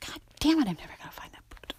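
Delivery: very quiet, near-whispered grumble; frustrated mutter. Real, not acted. Podcaster to self over a lost boot, frustrated mutter. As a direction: curse under your breath, hurried.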